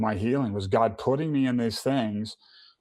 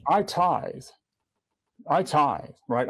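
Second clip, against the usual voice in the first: higher, indignant protest at God; self-righteous protest; 4 semitones higher, slower than usual. Retold or imitated. Man complaining to God after losing the monitor, indignant and higher. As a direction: plead your own good deeds, pitched up. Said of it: "I'm throwing my self-righteousness up to God".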